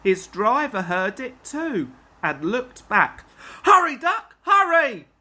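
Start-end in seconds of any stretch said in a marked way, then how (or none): 3.6-5.1 loud, high urgent shout; urgent call. Acted. Driver urgently calls to Duck about the breakaway trucks, loud and high. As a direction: yell a warning up to the engine. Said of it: "he called urgently".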